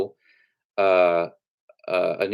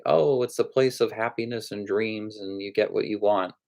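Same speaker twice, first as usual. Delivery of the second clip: mildly mocking idealism; mock promotional; 3 semitones higher than usual. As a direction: imitate a rosy Hollywood promo. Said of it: "a movie that was promoting".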